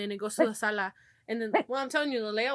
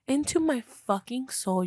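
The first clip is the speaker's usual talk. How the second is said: slow, drawn-out emphasis; emphatic; 3 semitones higher, 5 dB louder, slower than usual. Acted. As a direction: stretch each word for effect. Repeating the scary climax.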